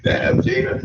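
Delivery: high, playful "Damn, Gina" catchphrase; storyteller hams up a sitcom catchphrase for Gina; Martin impression. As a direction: sing out the sitcom line in fun. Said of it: "I sound like Martin, don't I?".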